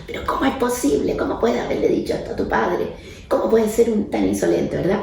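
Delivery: mock the indignant adult lecturing a teen; scolding parent. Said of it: "El tono que usa la mayoría de los adultos".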